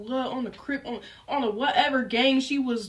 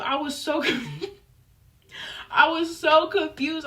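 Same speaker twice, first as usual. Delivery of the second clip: laughing confusion; 5 semitones higher, 3 dB louder than usual. Real, not acted. Laughs at her own confusion.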